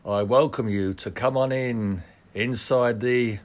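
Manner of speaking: slow, drawn-out carnival barker pitch; snake oil seller. Pretend. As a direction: roll up the crowd like a fairground huckster. Carnival barker opening the show.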